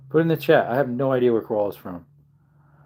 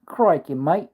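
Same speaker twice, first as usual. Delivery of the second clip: mock Aussie "crikey, mate", raised in pitch; Australian accent; 4 semitones higher, slower than usual. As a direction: put on a playful Australian accent. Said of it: "in Down Under, they say".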